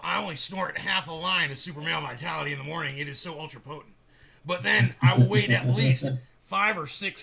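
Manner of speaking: hammed-up conspiracy-host rant; lightly exaggerated boastful radio host, leaning on key words; Alex Jones. Host doing his Alex Jones bit about supplements, hammed-up rant. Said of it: "I told you I do Alex Jones".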